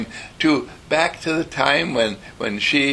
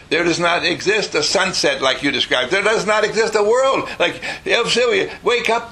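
mildly raised, higher-pitched mock scolding; exasperated mother; 5 semitones higher than usual. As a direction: act out a mother losing patience with a dreamer. Acted exasperated mother scolding dreamy daughter.

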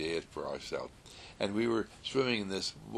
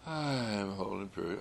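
slow, soft and gentle; gently and lovingly; 3 dB quieter, much slower than usual. Shown as a demonstration. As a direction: say it tenderly, taking time. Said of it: "Just say it gently and lovingly".

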